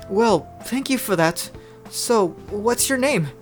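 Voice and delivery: high, slow character voice; young Noi. Acted. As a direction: pitch it up and take it slowly.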